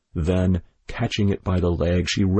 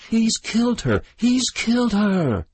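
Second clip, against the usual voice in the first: shrieking; 14 semitones higher than usual. A narrator's reading. The widow shrieks in horror over her hen. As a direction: wail it out, slowing on the repeat.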